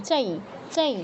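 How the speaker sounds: "চাই" ending in nasal ee; anusvara as nasal i. Shown as a demonstration. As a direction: demonstrate "চাই" with a nasalised i glide. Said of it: "অনুসারের উচ্চারণটা দেখুন".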